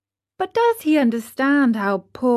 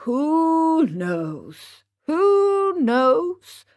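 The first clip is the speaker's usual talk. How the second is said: calmly; 6 semitones higher, much slower than usual. A narrator's reading. Old father to his stubborn son, calm and knowing. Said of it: "repeated Geppetto calmly".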